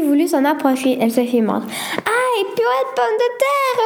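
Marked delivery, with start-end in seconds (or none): 2.0-3.8 high, sharp cry of pain; pained yelp. Acted. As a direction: yelp after the snakebite. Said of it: "hurla Sophie".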